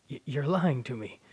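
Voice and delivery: "lying" pushed out hard in disbelief. Acted. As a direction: raise the voice on "lying". Son denies father's death.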